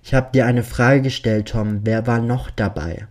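loud, firm interrogation; stern demand. Acted. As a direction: demand it with menace. Killer demands an answer.

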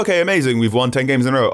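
high, elated fan voice; mock elation. England fan cheering a winning streak, mock elated. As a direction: imitate a fan thrilled by a streak.

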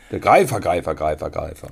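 deep announcer voice fading into echo; trailer voice with echo. Retold or imitated. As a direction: intone it like a dubbed film trailer. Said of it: "So war's im Trailer, ne? Die Stimme mit dem Hall".

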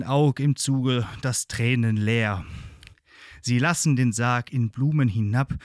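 solemn, measured ballad reading; poem recitation. Acted. Ballad narration to the end.

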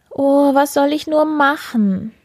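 mock sobbing. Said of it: "sagte sie und schluchzte".

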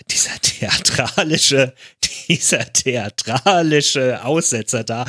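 theatralische drawn out slowly; stress on theatralische. Shown as a demonstration. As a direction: lean hard on theatralische, slowly. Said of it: "ich möchte jetzt mal nochmal betonen". (theatralische langsam und betont)

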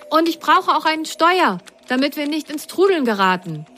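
high, eager character voice; Grasgrün voice. Acted. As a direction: ask for the wheel in a high voice. Pilot asks for a steering wheel.

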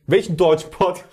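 German with an American accent. Shown as a demonstration. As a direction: speak German like an American tourist. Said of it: "ich versuche jetzt einfach mal einen amerikanischen Akzent".

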